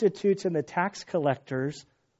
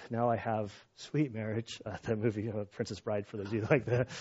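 emotional; 5 semitones lower, 8 dB quieter than usual. Real, not acted. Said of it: "Told you I'm in an emotional state".

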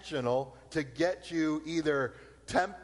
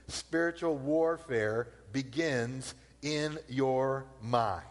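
slow emphasis; 3 semitones lower, slower than usual. Shown as a demonstration. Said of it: "I'll say it again".

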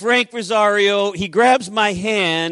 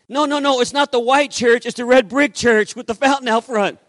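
high, insistent retold phone talk; emphatic and raised in pitch; excited correction; 4 semitones higher, 4 dB louder than usual. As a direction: imitate an eager man setting his wife straight. Retold excited phone call to wife.

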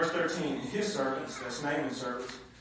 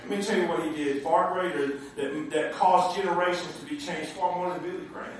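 voice of the Lord. Retold or imitated. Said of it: "the Lord's like".

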